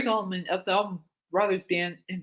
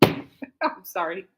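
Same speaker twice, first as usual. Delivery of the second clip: laughing; much slower than usual. Real, not acted. Giggling apology while reading.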